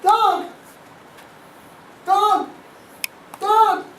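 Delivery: dog said slowly with big lip movements; "dog" mouthed clearly for lip reading; exaggerated mouthing. Shown as a demonstration. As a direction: practise "dog" at the mirror, lips wide. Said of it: "they give me the word".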